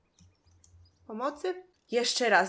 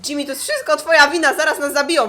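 louder, fast angry outburst; angry blaming; 3 semitones higher, 9 dB louder, faster than usual. Real, not acted. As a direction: blame him at full volume. Blaming Jimmy in panic.

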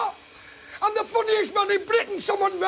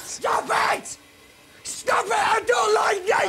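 pleading cry. Acted. Host begs baboon to stop.

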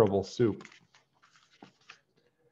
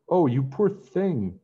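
slow, higher tender pity; 7 semitones higher, 5 dB louder, slower than usual. A narrator's reading. Peg to the hungry beggar, slow and pitying. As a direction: coo over the poor beggar. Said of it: "Peg cried when she saw him".

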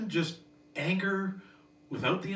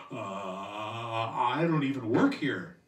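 much lower, very slow and dull store clerk; bored clerk; 7 semitones lower, much slower than usual. Retold or imitated. Sales associate brushing off a customer, slow bored drawl. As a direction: drag it out like a clerk who couldn't care less. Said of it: "they look at you and they say".

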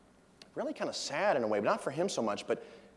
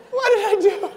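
much higher and louder, laughing protest; mock bewildered; 12 dB louder than usual. Fan protesting to the comedian, high laughing bewilderment. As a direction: squeal your innocence in disbelief. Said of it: "And I'm like".

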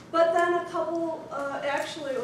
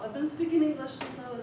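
fast laughing retort; 2 semitones lower, 3 dB quieter, faster than usual. Retold or imitated. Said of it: "he said".

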